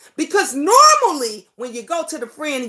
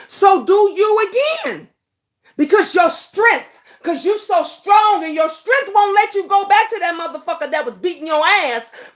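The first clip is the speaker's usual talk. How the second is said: real angry rant; 3 semitones higher than usual. Real, not acted. Confronting viewers who say she should leave, shouting and choked. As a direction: throw it at them, furious and hurt.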